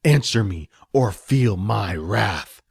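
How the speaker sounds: loud, very slow witch threat; threatening sorceress. Acted. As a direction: threaten the cowering goblin.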